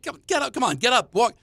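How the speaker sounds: high-pitched, quick-fire coaxing, re-enacted; urging parent. Father urging his fallen child up, acted insistence. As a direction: act out hurrying a child up. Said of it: "I'm like".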